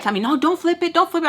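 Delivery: high, whiny imitation of her; mock protest. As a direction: mimic her objecting in a high voice. Quotes friend protesting in argument.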